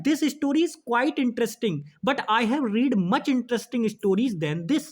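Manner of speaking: slow, careful re-reading; slow dictation. Shown as a demonstration. Teacher rereading the question to make students look closely, slow. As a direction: read it again slowly so students notice. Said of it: "अब आप ध्यान से देखो".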